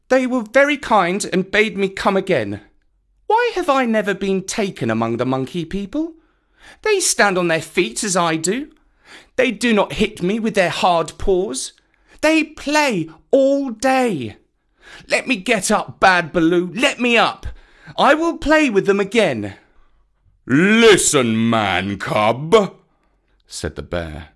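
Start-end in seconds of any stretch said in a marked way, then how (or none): 0.1-19.5 put-on high, petulant little boy; high, whining, insistent child; defiant Mowgli. A narrator's reading. Boy argues and protests. 20.4-22.8 loud, commanding bear; big, stern bear voice; thunderous rumble. A narrator's reading. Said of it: "his voice rumbled like thunder".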